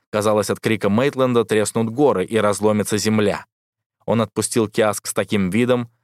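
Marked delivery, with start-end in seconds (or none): none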